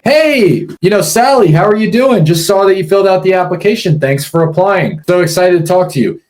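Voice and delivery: high, bubbly fake-friendly greeting; overly cheery caller. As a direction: gush like an eager recruiter. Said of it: "Is that how sellers talk to you".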